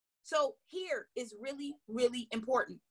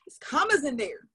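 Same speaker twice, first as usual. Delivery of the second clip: It's commas in there, with commas hit louder; louder, excited; 7 dB louder than usual. Shown as a demonstration. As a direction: punch the word commas with excitement. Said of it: "So that fires me up".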